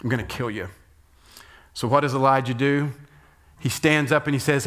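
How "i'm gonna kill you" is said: softer, lower threat; lightly voiced menacing queen; quiet menace. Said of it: "And Jezebel says".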